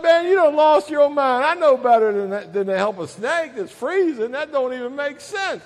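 acted exasperated argument; lightly voiced indignant refusal; protesting addict. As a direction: talk back to the snake in disbelief. Addict argues with snake.

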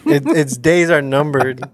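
words breaking into a laugh; laughing repeat. Real, not acted. Player repeating Gilbert's calendar punchline, laughing. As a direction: repeat it through real laughter.

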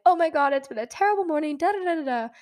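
fast, high-pitched panicky venting; retold freaking out. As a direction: rattle it off in a mock fluster. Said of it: "And I'm freaking out".

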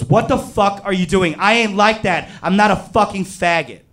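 high-pitched, indignant imitation of fury; outraged rejection. Friend rejecting the one who grabbed him, acted outrage. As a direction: act out an appalled, heated protest.

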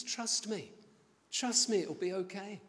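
high-pitched mock coaxing; coaxing reassurance. Uncle talking nephew into the drill, high coaxing voice. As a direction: coax a doubter with easy promises.

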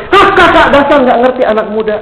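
lightly imitated kid's scoff, starting high; high start, falling into a dismissive jab; scoffing youngster. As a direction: brush off an older person, mock-indignant. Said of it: "Dia bilang".

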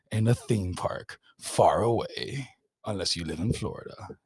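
movie trailer voice. Pretend. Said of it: "I'm gonna do a movie trailer voice".

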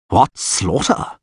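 slow, breathless dismay; panting. A narrator's reading. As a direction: pant it out as the wizard. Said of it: "he panted".

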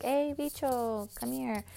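mock calling out to a child; calling a kid over. Imagined calling someone's kid.

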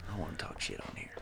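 fast hushed whisper. Real, not acted. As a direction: whisper so the mic won't catch it. Avoiding gossip on the recording.

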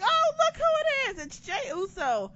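high sarcastic sing-song tease; mocking. Fan teasing Jey Uso about drinking, mocking high voice. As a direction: needle him with mock sweetness. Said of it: "I was like".

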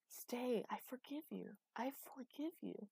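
tender pleading. A narrator's reading. She begs Idas to stay and forgives him, tender pleading. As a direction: gently beg through forgiveness.

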